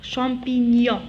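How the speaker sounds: slow "champignon" ending in -nyon; "champignon" without a hard g. Shown as a demonstration. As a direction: draw out "champignon", gn gliding like y. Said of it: "se prononce comme le Y".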